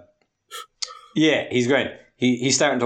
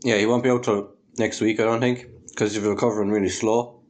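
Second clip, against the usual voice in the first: talking through chocolate; words round a mouthful; mouth full; 2 semitones lower than usual. Real, not acted. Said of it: "Sorry, I'm eating chocolate".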